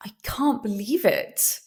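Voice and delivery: gasp, then breathless amazed disbelief; amazement. Shown as a demonstration. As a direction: gasp in shock and whisper it in wonder. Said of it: "it's amazement".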